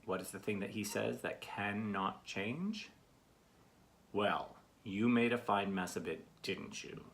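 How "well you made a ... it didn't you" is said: slow the rebuke down, let the tag question drop away; lecturing dad. Acted. Dad says that to his kids, slow mild reproach. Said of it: "once a dad says that to his kids".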